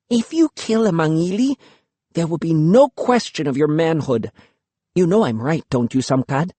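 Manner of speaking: quick and high, rushing the idea; eager idea. Acted. Luki pitching her bold plan, quick and eager. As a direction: sell him the plan.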